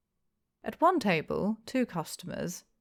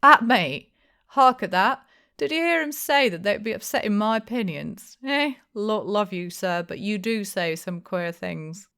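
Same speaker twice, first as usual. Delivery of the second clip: much louder, higher, laughing outburst; laughing disbelief; 4 semitones higher, 8 dB louder than usual. A narrator's reading. Innkeeper laughing off the stranger, loud and amused. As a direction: blurt it through laughter. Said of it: "holding his sides with laughter".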